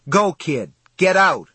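loud, high shouted order; urgent yell. A narrator's reading. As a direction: yell at the kid to run. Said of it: "Johnny yelled".

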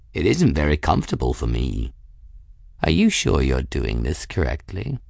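low-pitched cat, complaining; fussy cat. Acted. Raoul riding on Bridget's shoulders, fussy. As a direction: complain low, as a critical passenger.

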